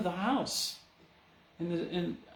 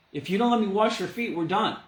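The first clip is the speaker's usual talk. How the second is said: louder, faster, pressing the point; firm ultimatum; 3 semitones higher, 4 dB louder, faster than usual. Retold or imitated. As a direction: push the ultimatum home, louder and quicker. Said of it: "This is what he says".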